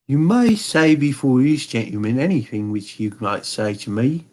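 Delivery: a hint of a haughty German king; Bohemian king. King speaks.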